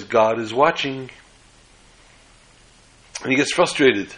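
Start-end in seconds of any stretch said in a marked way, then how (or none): 0.0-1.1 slow, solemn warning from the dark; ominous voice. Acted. Hidden parrot warns the burglar again, slow and ominous. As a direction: let it hang, slow and ominous. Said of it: "he hears that little ominous voice".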